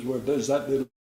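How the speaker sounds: lightly imitated French accent; a hint of a Frenchman's English. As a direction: retell it with a touch of French accent. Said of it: "this guy in the French accent".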